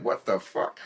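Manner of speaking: breathless whispered swear; hushed kid's amazement; awed whisper. Retold or imitated. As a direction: whisper it, stunned by the screen. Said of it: "I was like".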